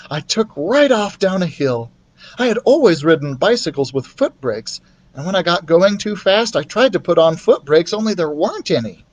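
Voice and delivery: put-on boy telling a bike story; lightly voiced boy; boy's voice. The speaker voiced.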